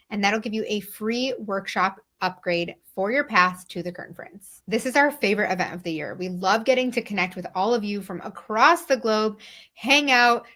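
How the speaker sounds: upbeat scripted host read for a conference; podcast promo read. Acted. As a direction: sell the event to listeners with punched key words.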